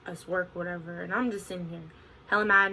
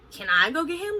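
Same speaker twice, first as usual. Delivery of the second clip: higher, louder, eager asking; begging the manager to let her chase; eager plea; 9 semitones higher, 6 dB louder than usual. Retold or imitated. To the manager, an eager raised plea. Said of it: "I'm like".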